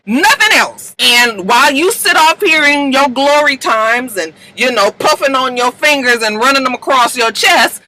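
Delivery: acted heated telling-off. Marcus tells Fitz who made him president, heated. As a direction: lay into him, retelling the argument.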